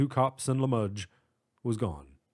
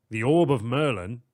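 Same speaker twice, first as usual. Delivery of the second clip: louder astonished question; 5 dB louder than usual. Acted. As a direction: repeat it in disbelief. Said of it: "a note of astonishment in his voice".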